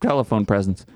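high, shouted mock indignation; mock outrage. Andrew scolding a panting friend on the phone, shouted high mock outrage. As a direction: play Andrew as a pompous offended caller. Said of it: "And Andrew's like".

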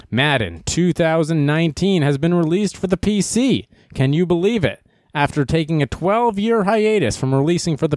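newsreader delivery; announcer voice. Shown as a demonstration. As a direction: read it like a news anchor. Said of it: "trying to talk like a, an announcer".

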